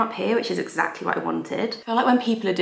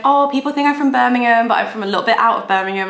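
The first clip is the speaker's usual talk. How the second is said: imitating a Birmingham accent, higher, louder and fast; quick chatty Birmingham accent impression; 4 semitones higher, 5 dB louder, faster than usual. Retelling the makeup artist's chat in a Birmingham accent. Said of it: "I could tell from her accent".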